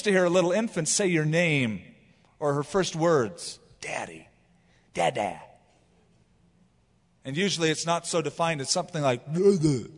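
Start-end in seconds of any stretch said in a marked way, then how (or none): 3.8-5.4 put-on baby babble. Infant's word imitated. 9.3-9.9 put-on baby babble. Baby babble imitated, laughing.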